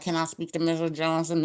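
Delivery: a boss checking up on a sick worker, loud and formal; mock boss on phone. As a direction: play the boss ringing up to check. Boss calling the sick employee.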